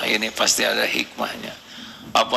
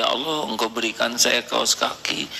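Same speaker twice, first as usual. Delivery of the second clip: grateful prayer. Shown as a demonstration. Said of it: "Pakai kaos kaki".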